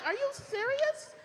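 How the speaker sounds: high, drawn-out incredulous question; heated disbelief. Retold or imitated. Wife fed up with unhelpful husband, heated and incredulous. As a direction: stretch it upward in exasperated disbelief. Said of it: "I am just heated".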